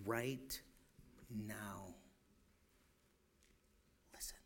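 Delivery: soft breathy whisper. Acted. Preacher hushing the room to hear God, whisper. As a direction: whisper it so they lean in.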